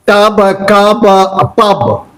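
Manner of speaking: "tub, cub, pub" with the short a-sound "uh" for U; teacher demonstrating "tub", "cub", "pub" with U as a short a. Shown as a demonstration. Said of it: "U pronounced as A".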